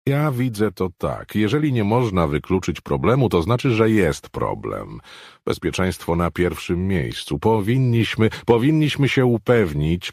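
firm, worried objection, only lightly characterized; voiced Riverdale. Riverdale insisting on safety to the group, lightly voiced firm worry.

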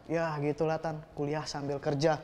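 low, soft, evasive mumble; subdued, embarrassed low reply; sheepish boyfriend. Acted. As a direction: answer the aunt meekly, pitch dropped right down. Boyfriend sheepishly answers the parent.

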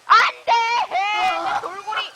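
loud, high wail of loss; dismayed cry. Real, not acted. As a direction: cry out in dismay, dragging the words. Pet dolphin has gone missing. (크고 높게 절규하듯)

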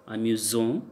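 "amusant" with single s said as z; z sound. Shown as a demonstration. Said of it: "that time we pronounced as z".

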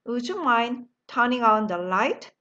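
very slow, every word laid out; slow model sentence. Shown as a demonstration. Teacher modelling the phrase slowly for the class. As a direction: spell it out slowly for learners to copy. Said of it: "다 같이 한번 할까요".

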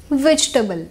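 वेजिटेबल said VEJ-tuh-bul; वेजिटेबल in three syllables, table part as "tbl"; correct vegetable. Shown as a demonstration. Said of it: "इसकी pronunciation होगी वेजिटेबल". (सही उच्चारण "वेज्टबल")

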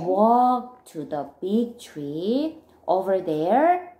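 slow, drawn-out direction; careful instruction. Acted. Friend giving careful directions to Milton, slowly. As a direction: spell out the route slowly. Repeated after "listen carefully.

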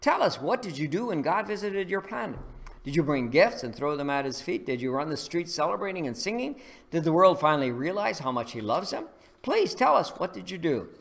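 rising high, pleading on "Please tell us"; eager questioning. Acted. Aliens begging the farmers to tell them, eager. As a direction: press them with eager wonder.

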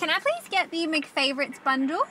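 sweet, polite customer; polite drive-thru voice. Real, not acted. Ordering at drive-thru speaker.

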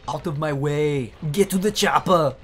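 a deliberately bad blockbuster-hero impression; cheesy action-hero growl, done badly on purpose; awful action-movie impression. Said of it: "God, I love my awful impressions".

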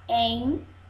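EN... XU... GAR, one beat each; counting syllables. Shown as a demonstration. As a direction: say "Enxugar" in three pieces to be counted. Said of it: "Vamos lá contar mais uma vez?". ("Enxugar" sílaba por sílaba, para contar)

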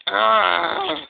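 loud, drawn-out growling "uh"; acted growl. A narrator's reading. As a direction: growl in mock frustration. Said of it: "he growled".

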